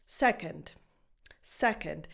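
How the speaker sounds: "Second." with an undefined, barely-there second vowel; schwa demo. Shown as a demonstration. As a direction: say "Second." low and falling, stress on the first syllable, second vowel reduced. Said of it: "a very undefined vowel sound".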